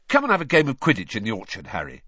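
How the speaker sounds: eager invitation. Acted.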